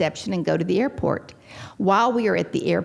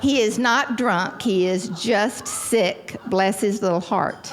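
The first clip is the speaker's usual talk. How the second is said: insistent denial; 2 semitones higher, slower than usual. Retold or imitated. Repeats her denial to the audience.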